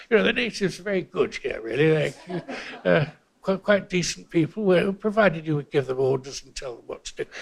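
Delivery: lightly voiced old colonial officer; a hint of a patronising colonial official; British colonial official. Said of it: "like some British colonial official".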